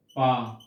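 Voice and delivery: पा sounded alone like an infant; baby babble syllable. Shown as a demonstration. Teacher showing the syllable a baby says. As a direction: give one short baby पा. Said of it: "या".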